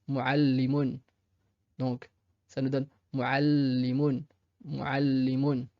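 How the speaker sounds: muallimun, lentement avec le ll doublé; doubled l. Shown as a demonstration. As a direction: muallimun en tenant le l. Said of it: "la shadda". (muallimun, l double appuyé)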